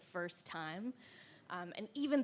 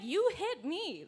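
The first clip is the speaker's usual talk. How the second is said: high, slow, put-on whimper; mock hurt whine; mock whiny sob voice; 8 semitones higher, 3 dB louder, slower than usual. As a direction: mimic a crybaby, lightly. Mocking the crying bully.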